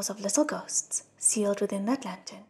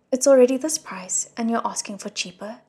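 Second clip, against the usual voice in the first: arguing; 6 dB louder than usual. Acted. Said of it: "that elder argued".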